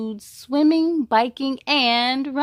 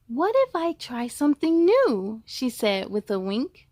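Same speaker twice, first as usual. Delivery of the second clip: story narration. A narrator's reading. Reads rhyming picture book.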